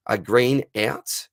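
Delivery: slow, puzzled first read of the question. Real, not acted. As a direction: lettura lenta e perplessa. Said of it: "what the Green out is".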